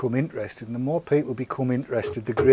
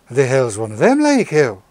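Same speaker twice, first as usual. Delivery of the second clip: Geordie patois; 5 dB louder than usual. Retold or imitated. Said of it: "slightly Geordie patois".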